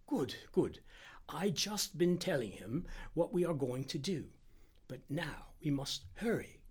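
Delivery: lightly voiced doctor, slowing toward the end; anxious Indian doctor. Doctor meeting returning helper, mildly anxious urgency. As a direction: press for haste with contained worry.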